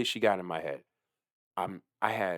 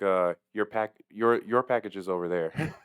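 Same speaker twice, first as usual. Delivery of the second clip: monotone. Retold or imitated. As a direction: say it like you couldn't care less. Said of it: "in just kinda like a monotone kinda thing, just, like, no emotion at all".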